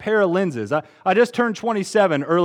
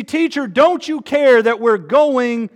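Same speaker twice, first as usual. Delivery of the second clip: disciples' plea; 5 semitones higher, 4 dB louder, slower than usual. Retold or imitated. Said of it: "they see".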